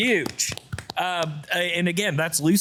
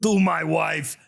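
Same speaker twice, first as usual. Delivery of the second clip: hammed-up New York accent, pushed up high; 7 semitones higher than usual. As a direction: holler it like a cartoon New Yorker. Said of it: "gonna have to read this in an accent".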